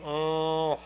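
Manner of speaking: soft humming NG; nasal hum. Shown as a demonstration. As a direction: hum through the nose. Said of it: "go ahead and do an N G".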